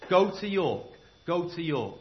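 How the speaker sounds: mild ghostly summons; mysterious voice. Acted. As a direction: call him from a dream. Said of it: "that same voice".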